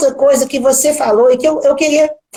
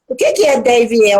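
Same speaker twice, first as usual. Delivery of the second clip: normal talking voice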